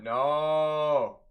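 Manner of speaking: long, drawn-out groan of a "no"; dismayed no. Retold or imitated. Fan reliving the rivals scoring, dismayed. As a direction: stretch it out in mock despair.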